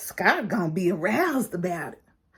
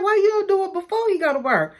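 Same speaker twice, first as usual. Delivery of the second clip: quoting the ladies; 10 semitones higher, faster than usual. Retold or imitated. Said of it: "they were like".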